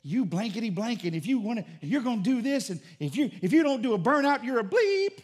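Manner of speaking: building to a high, loud imitated cussing; mock yell. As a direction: rant at him, rising into a shriek. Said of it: "he's yelling".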